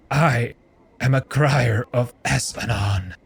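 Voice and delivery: a hint of a parched croak; hoarse croak. Weeping monk croaking to the stranger, hoarse. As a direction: force out one dry word. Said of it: "His voice is so hoarse".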